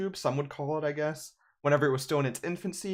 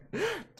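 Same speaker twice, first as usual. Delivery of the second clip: laugh; 5 dB quieter than usual. Real, not acted. Laughs at own Fortnite jab.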